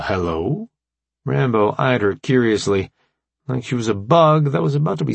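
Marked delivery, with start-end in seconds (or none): 0.0-0.7 low, doubtful hello; wary hello. Acted. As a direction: ask it suspiciously. Rambo's wary reply.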